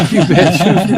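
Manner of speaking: laughing. Acted. Echoing Big Harold line laughing.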